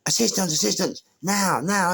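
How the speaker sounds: officer yelling for help on the radio; urgent call. Retold or imitated. Officer calls for backup.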